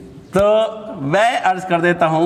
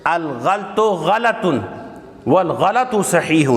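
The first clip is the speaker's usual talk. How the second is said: scholars' saying; slower than usual. Shown as a demonstration. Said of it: "ہمارے علماء کیسے کہتے ہیں".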